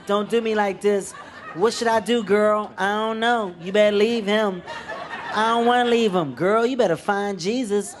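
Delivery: high, loud mock woman's voice. Comedian mimics girlfriends in a romantic comedy, hammed-up woman voice. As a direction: play two girlfriends dramatizing a breakup. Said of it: "That's my woman voice for everything".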